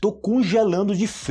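teacher sets up a common phrase, lifting the voice. Shown as a demonstration. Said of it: "Isso aí é muito comum você escutar em português".

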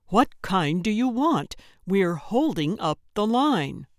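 mildly impatient urging; impatient prodding. Acted. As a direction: hurry her along, exasperated. Calvin hurries her, line waiting.

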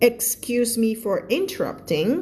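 slow, clear read of excuse me for interrupting; slow model. Shown as a demonstration. Teacher modelling the useful phrase. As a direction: say each word slowly for learners. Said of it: "จำแล้วไปใช้ได้ค่ะ".

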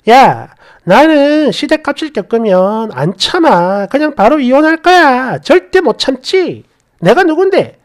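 친구들 앞에서 호언장담하듯; 자신만만하게 점점 높여 말하기; 큰소리치기. Retold or imitated. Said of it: "제가 친구들한테 그랬어요". (당당하게 장담하는 말투)

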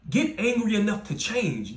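rally them to change; fired-up exhortation. Acted. Preacher urging listeners, fired-up. Motivational peak of the talk.

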